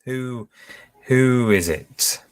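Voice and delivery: ordinary delivery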